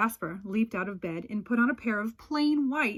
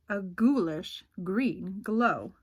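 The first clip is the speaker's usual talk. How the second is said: spooky slow; 3 semitones lower, slower than usual. A narrator's reading. Spooky description, slowed.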